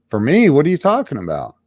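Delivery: mock-puzzled retort, quick at the end; baffled reply. Drinker answers a stranger claiming a job, baffled. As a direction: act out being caught off guard.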